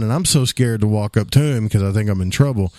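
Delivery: ordinary delivery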